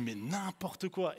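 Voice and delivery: re-enacted indignant objection, slowed for emphasis; worked-up protest. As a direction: protest in disbelief, stretching the words. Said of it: "Et moi, je m'excite".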